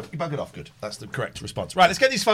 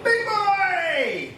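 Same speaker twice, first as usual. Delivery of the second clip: high delighted squeal at the dog; excited greeting; 13 semitones higher than usual. Real, not acted. Greeting the big dog, delighted high squeal.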